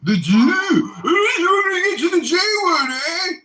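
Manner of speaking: loud laughing taunt, voice cracking up; laughing mock outrage. Real, not acted. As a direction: jeer through laughter. Mocking laughing provocation at S1.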